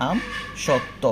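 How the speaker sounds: আম then সত্ত্ব with a break; teacher models আম সত্ত্ব; split pronunciation. Shown as a demonstration. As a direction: pause between আম and সত্ত্ব. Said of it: "এভাবে উচ্চারণ করতে হবে".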